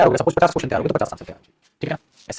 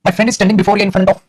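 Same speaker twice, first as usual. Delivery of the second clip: slow dictation; 3 semitones higher, 4 dB louder, much slower than usual. Shown as a demonstration. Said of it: "आपको fill करना है".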